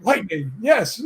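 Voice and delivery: relieved little cheer; excited. Retold or imitated. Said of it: "And I go".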